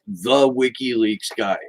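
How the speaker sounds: mimicked condescension with weight on "the"; super condescending. Mocking how a TV host refers to Assange, condescending. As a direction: imitate a host looking down on him. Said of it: "She says it in a super condescending voice".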